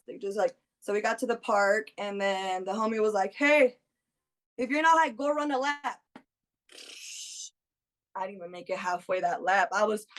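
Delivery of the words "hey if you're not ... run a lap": higher, louder challenge; raised-pitch retold taunt; friend egging someone on. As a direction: imitate a buddy calling out a dare.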